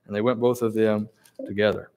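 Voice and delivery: measured, steady Bible reading voice; scripture reading. Acted. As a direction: read the passage with reverence. Reads scripture passage aloud.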